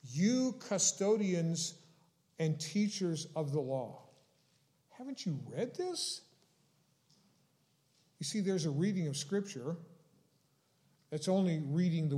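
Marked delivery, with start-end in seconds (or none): 0.0-6.2 mild rebuke. Retold or imitated. Jesus challenging the teachers of the law, mildly rebuking. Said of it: "they would have heard the rebuke".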